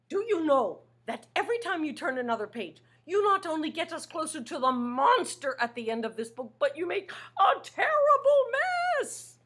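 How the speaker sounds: high, fast complaint breaking into a laugh; a hint of a flustered monster; scolding Grover.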